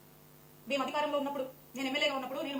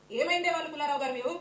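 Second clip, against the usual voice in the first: heated shout; 6 dB louder than usual. Real, not acted. Heated TV debate challenge.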